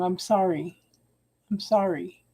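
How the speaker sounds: soft, subdued repeated apology; contrite apology. Real, not acted. Reader admitting she was wrong, softly contrite. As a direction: murmur it low, meaning it.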